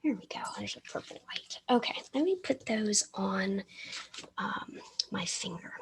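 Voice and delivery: mumbled with a brush held in teeth; brush in mouth. Real, not acted. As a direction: speak through a brush in your mouth. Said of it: "so I may mumble a bit".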